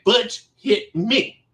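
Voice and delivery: slow, drawn-out tattletale whine; mock whining. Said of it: "sniveling, whining, and say".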